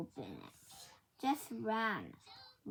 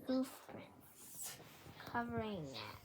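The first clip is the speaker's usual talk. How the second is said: whispered; 6 dB quieter than usual. A narrator's reading. Reading a story aloud.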